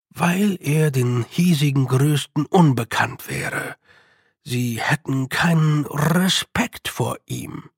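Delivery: Respekt with a long rolling R like an avalanche; Respekt, R rumbling; rolled R. A narrator's reading. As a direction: roll the R in Respekt hard. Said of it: "Respekt wie eine Lawine".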